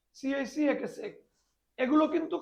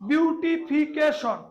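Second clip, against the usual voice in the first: syllable by syllable; much slower than usual. Shown as a demonstration. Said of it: "বলা হয় পলিসিলেবাল".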